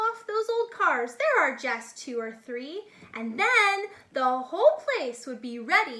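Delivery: lively, singsong picture-book reading; animated storybook read-aloud; reading to children. A narrator's reading. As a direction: read it like a bedtime rhyme book. Reads Dr. Seuss to children.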